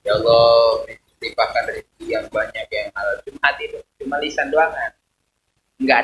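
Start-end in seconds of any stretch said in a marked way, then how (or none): 0.1-3.2 lip-service prayer. Shown as a demonstration. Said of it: "Jadi nggak suara doang".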